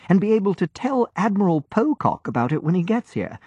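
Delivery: put-on an obliging young sailor, easy and sure; cheerful young lieutenant. A narrator's reading. Lieutenant explains his plan.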